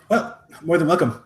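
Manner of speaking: a hearty innkeeper chuckling as he greets them; laughing welcome. Acted. NPC welcomes guests, laugh heard.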